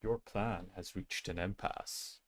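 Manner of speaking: slow, lightly voiced announcer line; a hint of a booming stadium announcer; Capitano voice. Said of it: "booming stadium announcer voice".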